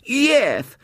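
put-on high, loud, bitter little girl; sudden bitterness. A narrator's reading. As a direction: spit out a lisped child's yes. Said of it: "with sudden bitterness".

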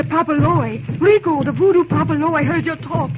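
fast, loud frightened warning; fearful warning. Acted. Wife warning Toussaint the priest is coming, frightened. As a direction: warn him in panic.

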